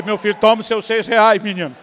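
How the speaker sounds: loud triumphant call. Retold or imitated. Father calling to his son, handing back the money. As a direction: shout it out in triumph.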